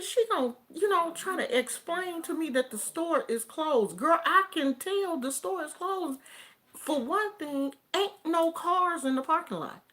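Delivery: high-pitched, loud, incredulous retelling; exasperated rant. Retold or imitated. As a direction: act out being fed up with the obvious. Acted exasperation at clerk's explanation.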